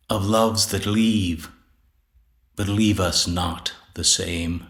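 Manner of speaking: measured poetry reading with pauses between lines; poem recitation. Acted. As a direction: recite it deliberately, phrase by phrase. Reads own sonnet aloud.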